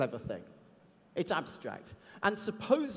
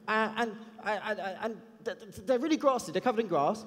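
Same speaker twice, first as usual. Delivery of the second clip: put-on ten-year-old kid; 2 semitones higher than usual. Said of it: "I won't do his accent".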